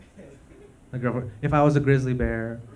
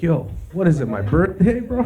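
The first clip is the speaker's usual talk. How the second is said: excited toilet; 6 semitones higher than usual. Pretend. Toilet thrilled at vomit, hyped bro voice. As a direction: cheer like it's your birthday. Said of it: "the toilet's like".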